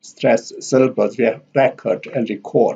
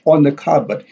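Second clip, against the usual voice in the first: ON stressed in "on the cupboard". Shown as a demonstration. Teacher contrasts on with in, stress on ON. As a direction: lean on the word on, contrasting it. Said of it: "it contrasted with on".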